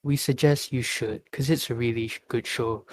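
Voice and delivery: gently recommend it to listeners; courteous, good-hearted suggestion; considerate, no-pressure advice; polite, kindly tone. Shown as a demonstration. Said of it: "Politely, with a good heart".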